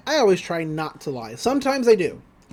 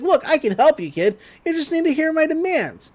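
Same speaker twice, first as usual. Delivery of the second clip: sly villain voice; 8 semitones higher than usual. Retold or imitated. Bill voiced in recap.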